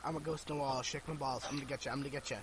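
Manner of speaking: a hint of a moaning ghost. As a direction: croon it low like a spook in the wall. Ghost voice in the wall.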